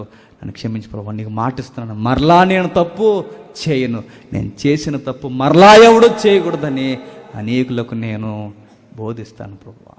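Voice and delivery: a touch of tearful pleading; mild mock sobbing prayer; weeping plea. Shown as a demonstration. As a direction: beg forgiveness as if in tears, lightly. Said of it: "ఏడుస్తూ అంటున్నాడు".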